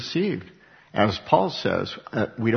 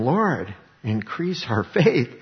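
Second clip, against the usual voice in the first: slow, stretched-out plea; an earnest request, words lengthened; drawn-out appeal; 2 semitones higher, slower than usual. Acted. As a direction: draw out INCREASE OUR FAITH as an appeal. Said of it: "this way I think it was probably said".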